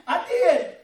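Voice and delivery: says it through a real laugh; laughing at his own cheek. Real, not acted.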